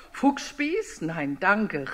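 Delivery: mock-frightened fox backing off; startled fox. Fox hears it will be skewered, mock alarm.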